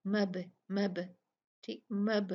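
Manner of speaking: मब with the ब jolted and bounced; qalqala demo. Shown as a demonstration. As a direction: shake the ब of मब with a quick jolt. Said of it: "हिला के झटके से पढ़ा है". (मब के ब को झटके से हिलाकर पढ़ें)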